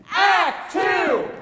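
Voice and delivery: announcer. Acted. Announcing act.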